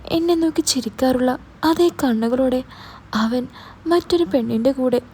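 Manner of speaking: understated heartbroken telling; mild sobbing. Acted. Girl describes the photos to Mahesh, understated tearful voice. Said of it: "തേങ്ങലോടെ പറഞ്ഞു".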